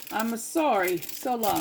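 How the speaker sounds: light mock Italian accent. Cook joking with viewers, mock Italian accent. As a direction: apologise in a playful Italian accent. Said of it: "I could do my Italian accent".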